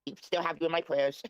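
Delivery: disguised voice through a voice changer. Real, not acted. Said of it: "Is this Nick with a voice changer?".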